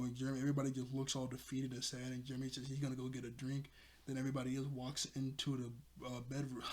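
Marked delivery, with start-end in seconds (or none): 4.1-6.6 breathless, short of air; out of breath. Real, not acted. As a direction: talk while catching your breath. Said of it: "you could hear I'm out of breath".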